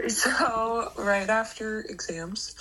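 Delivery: congested, stuffy voice; blocked nose. Real, not acted. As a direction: talk through a blocked nose. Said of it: "so I sound very congested".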